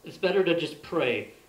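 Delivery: emphatic recital in measured phrases; poem reading. Real, not acted. Poet reads modern day Van Helsing poem to audience, emphatic recital. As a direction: read it out as an earnest personal poem.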